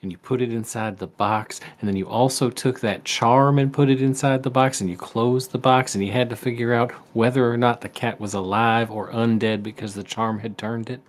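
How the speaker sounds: lightly voiced homespun father; folksy dad voice. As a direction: tell it like a folksy old farmer dad. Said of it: "folksy voice he always used to do".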